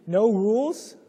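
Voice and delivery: imitating a shocked parent hearing "no rules"; incredulous. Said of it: "in people's minds, they're thinking".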